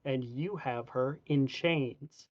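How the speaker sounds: slow, pointed character accusation; challenging adventurer. Acted. Adventurer confronts Sigmund over the chains, slowly and pointedly. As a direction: confront him deliberately, lightly acted.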